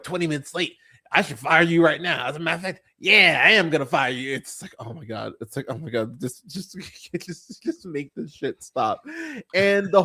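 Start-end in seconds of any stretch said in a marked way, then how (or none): 0.0-4.3 a hint of over-the-top villain boss; mock a mean boss laying down the law; cartoonishly evil boss. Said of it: "this is so cartoonishly evil".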